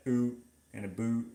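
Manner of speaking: oot and a boot, with OO in place of OW; exaggerated Canadian OO vowel in "oot" and "boot"; stereotypical Canadian vowels. Shown as a demonstration. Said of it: "They all say the".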